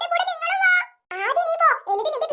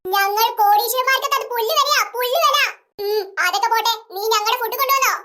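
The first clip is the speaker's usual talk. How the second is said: pretend haughty heiress; 4 semitones lower than usual.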